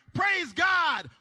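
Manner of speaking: high, loud shout of relief; loud praise of thanks, beating the wife home; relieved shout. Acted. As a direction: yell it out in pure relief. Relieved cheater gets home first.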